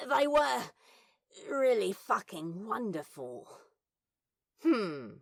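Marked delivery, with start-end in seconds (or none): 4.6-5.1 satisfied hum. A narrator's reading. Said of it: "Bees hummed".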